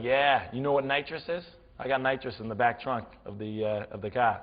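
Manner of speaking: lightly voiced New England car guy; casual brag in a New England accent. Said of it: "had the best accent ever".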